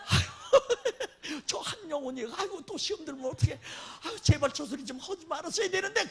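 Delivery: high, laughing fretful aigo; mock worried sigh. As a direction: fret aloud half-laughing. 목사가 속으로 걱정하는 장면. (웃으며 걱정하는 혼잣말)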